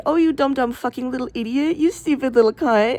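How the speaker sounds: lightly voiced mock sweet insult to the dog; a hint of a silly pet voice, cooing insults; funny voice. Shown as a demonstration. Talking to her dog, a funny voice cooing insults. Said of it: "in my funny voice".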